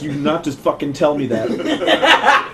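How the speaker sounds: slow, low mock threat; angry Joe. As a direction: imitate a friend seething, drawing it out. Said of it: "starts getting really angry".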